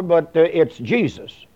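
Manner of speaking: whispered aside mocking the opponents; a hushed mocking jab. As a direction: drop to a sly half-whisper. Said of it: "Now, when they say".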